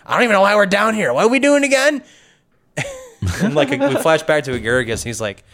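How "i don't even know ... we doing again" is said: confused guard. Retold or imitated. Lizard folk guard confused.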